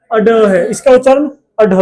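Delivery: अड said with a short a before the ड; sounded with a leading a. Shown as a demonstration. Teacher to class, correcting how ड is pronounced. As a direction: give अड a short a at the start. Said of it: "शुरू में अ की sound add हो जाती है".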